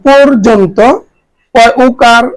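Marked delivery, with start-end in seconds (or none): 0.1-0.8 পর্যন্ত said as "por-jon-to" with o sounds; teacher's careful পর্যন্ত; model pronunciation. Shown as a demonstration. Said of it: "খেয়াল করে উচ্চারণ".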